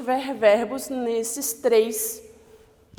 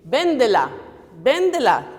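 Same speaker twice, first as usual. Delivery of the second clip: firm, louder command: Véndela, véndela; mock order to son; 6 dB louder than usual. Mother ordering her son to sell the bike, firm. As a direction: tell the kid to sell it, firmly. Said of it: "Eu vou dar uma ordem pra ele".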